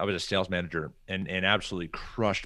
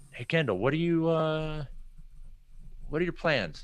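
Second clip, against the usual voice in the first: raised, friendly question voice; curious boss; 9 semitones higher than usual. Retold or imitated. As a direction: ask it brightly and lightly, like an upbeat boss. Boss asks about his plans.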